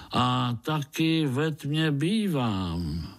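high, slow, homely Moravian mole; a kindly mole chatting about himself, unhurried; good-natured mole. Acted.

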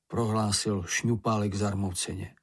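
ordinary delivery, nothing marked

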